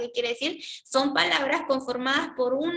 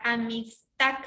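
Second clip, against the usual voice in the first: "Amistad" split into syllables, weight on "tad"; teacher's syllable-by-syllable "Amistad", stressed at the end; stress on final syllable; slower than usual. Shown as a demonstration. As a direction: sound out "Amistad" slowly, ending on the stressed "tad". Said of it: "la mayor fuerza de voz está en tac".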